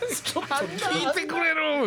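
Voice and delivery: slow, high, laughing words; holding back laughter. Retold or imitated. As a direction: speak through stifled giggles. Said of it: "笑いこらえながら電話して".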